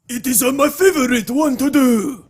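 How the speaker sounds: high, loud put-on Asian accent; exaggerated Asian accent. Co-host answering host's request, exaggerated Asian accent. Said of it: "could you do an Asian accent?".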